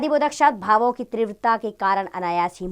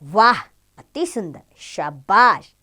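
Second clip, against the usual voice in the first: admiring praise; 3 dB louder, much slower than usual. Shown as a demonstration. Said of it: "प्रशंसा बोधक शब्द होते हैं".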